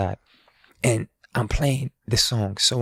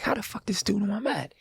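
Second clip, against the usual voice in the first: whispered aside; 10 semitones higher, 6 dB quieter than usual. Retold or imitated. Retold inner thought, unvoiced.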